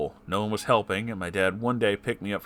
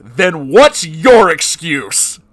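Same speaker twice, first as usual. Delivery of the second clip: slow, loud, much higher furious shout; 8 semitones higher, 15 dB louder, much slower than usual. Real, not acted. Shouting back at the stepfather's bigoted words, furious. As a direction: roar it out slowly, each word hammered. Angry retort to stepfather's quote.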